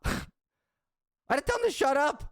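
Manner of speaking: laughing. Real, not acted. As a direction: crack up while retelling telling the driver to shut up. Repeats line, laughing through it.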